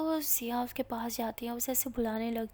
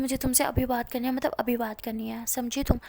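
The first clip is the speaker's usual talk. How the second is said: insistent; 5 dB louder than usual. Acted. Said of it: "Siya को काफ़ी गुस्सा".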